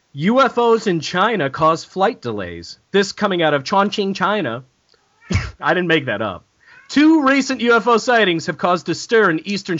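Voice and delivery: a measured news-anchor read of the story; mock public radio newsreader. Shown as a demonstration. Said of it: "Do you hear how I read the news?".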